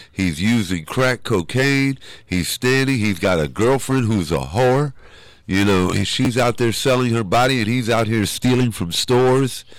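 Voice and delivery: voicing a mother's anguished plea to God; pleading prayer. Mother praying to the Lord about her son, pleading. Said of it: "was praying".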